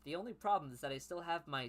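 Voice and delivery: lightly acted character dialogue; dialogue mode. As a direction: read it as a character's spoken line, slightly livelier. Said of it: "we're in dialogue mode now".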